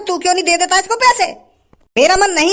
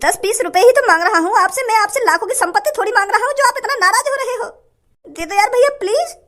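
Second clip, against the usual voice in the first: higher, plaintive begging; pleading beggar; 5 semitones higher than usual. Acted. Beggar pleading with the shopkeeper, higher and plaintive. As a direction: plead with him one last time.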